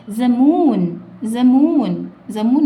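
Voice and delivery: loud drill. Shown as a demonstration. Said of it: "loud drill of word".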